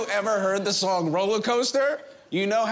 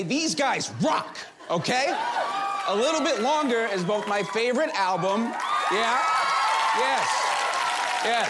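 shouting. Acted. Defending the band loudly.

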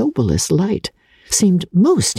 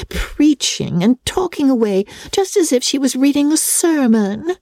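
lightly voiced giddy young girl, a touch higher; Lydia chattering; 5 semitones higher than usual. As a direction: rattle on like a silly excited girl. Lydia gossiping about her wedding.

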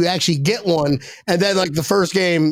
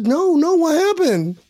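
mock eager question; 7 semitones higher, slower than usual. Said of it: "if he says".

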